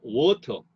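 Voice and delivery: water with the first syllable WA stressed; first-syllable stress demo. Shown as a demonstration. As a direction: hit WA in water. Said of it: "강세가 부여됩니다".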